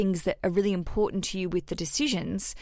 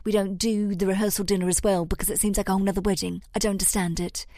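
put-on old English accent; faster than usual. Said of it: "What's this accent? It's some sort of old English".

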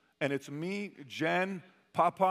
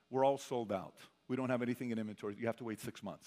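low-effort brush-off, trailing softer and lower; zero effort; 4 semitones lower, 4 dB quieter, faster than usual. Retold or imitated. Salesman turning away a Cayenne buyer, imitated with zero effort. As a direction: imitate a salesman who can't be bothered. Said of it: "So there's zero effort".

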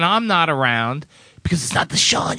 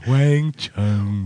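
low, mock earnest delivery of a band name; imitating the host; 11 semitones lower than usual. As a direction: copy his earnest reading. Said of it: "You saying".

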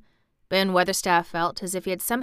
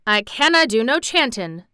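put-on grumpy old Yorkshire gardener, raised; a hint of an irritable old man; a trifle testy; 4 semitones higher, 7 dB louder than usual. A narrator's reading. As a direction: grumble it, mildly put out. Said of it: "said Ben Weatherstaff a trifle testily".

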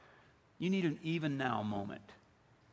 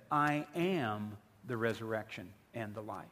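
solemn declaration; 6 semitones lower than usual. Acted. Preacher quotes what Jesus said, solemn and measured. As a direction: let each word land, in a lower pitch.

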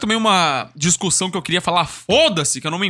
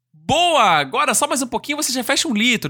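cheering bottle captions; 4 semitones higher than usual. Acted. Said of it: "tem várias linhas falando assim".

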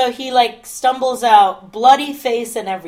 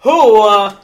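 loud, hammed-up Italian accent; terrible Italian accent; 9 dB louder than usual. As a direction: put on a bad stage Italian. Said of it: "is in a terrible Italian accent".

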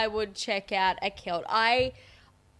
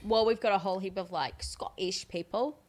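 put-on Scottish accent. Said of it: "I shouldn't talk like that".

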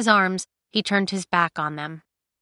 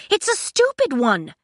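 high, scornful comeback; raised, exasperated jab; angry retort; 9 semitones higher, 4 dB louder than usual. Acted. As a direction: fire it straight back. Cinder snaps back in quarrel.

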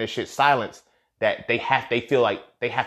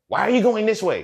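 high, pushy question; mock woman questioning; 9 semitones higher, 4 dB louder than usual. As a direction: needle him about the route. Mocking the woman questioning his route.

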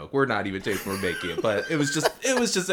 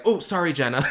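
laughing apology; 5 semitones higher, 5 dB louder than usual. Retold or imitated. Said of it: "she's like".

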